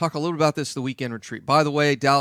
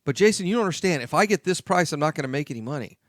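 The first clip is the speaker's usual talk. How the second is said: whiny mocking client; 3 semitones higher, faster than usual. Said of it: "It's not the market's fault".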